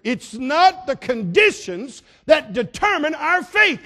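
loud, high, slow preacher shout; preaching at full force. Acted. Preacher shouts the answer to his congregation. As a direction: thunder the answer to the church.

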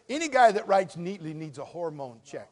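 usual speaking voice

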